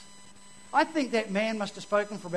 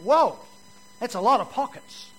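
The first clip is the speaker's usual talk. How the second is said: greedy delight; 3 semitones higher, 7 dB louder than usual. Retold or imitated. Pickpocket sees big crowd.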